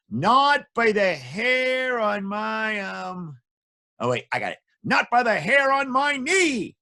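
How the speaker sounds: high, slow little pig squeak. Acted. Pig answering the wolf from inside.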